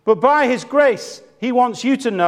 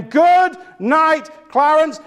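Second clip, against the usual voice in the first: high, preacherly call; imitated yelled farewell; 8 semitones higher, 4 dB louder, much slower than usual. Minister grabs the casket lid, yelling out. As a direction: yell the farewell out high over the coffin. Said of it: "he yells out again".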